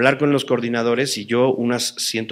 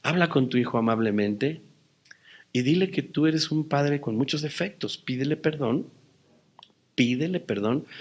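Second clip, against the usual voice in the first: voice of God, gentle; 7 dB quieter than usual. Retold or imitated. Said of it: "a qué me guió el Señor".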